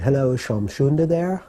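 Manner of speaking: put-on light English accent, lilting up. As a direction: imitate a polite English caller's accent. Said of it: "in an English accent".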